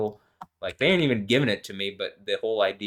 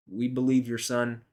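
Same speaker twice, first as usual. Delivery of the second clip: mock preacher; 3 semitones higher than usual. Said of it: "I can't do his accent".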